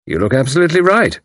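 kindly pleased approval; the commander approving her disguise. Acted. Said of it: "he said kindly".

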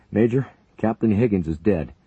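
urgent report. A narrator's reading. Paramedic reporting the co-pilot's death, loud. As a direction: get the news across.

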